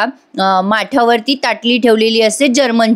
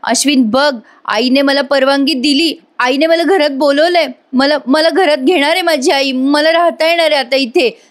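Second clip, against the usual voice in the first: gleeful, pitch climbing higher line by line; mock-excited chatter, pitch rising higher; retold glee; 3 semitones higher than usual. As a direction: bubble over, like a girl who got her way. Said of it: "लगेच आनंदी होते".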